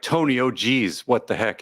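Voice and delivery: a hint of Wisconsin in the vowels; Wisconsin accent. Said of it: "That's how you would pronounce it in Wisconsin".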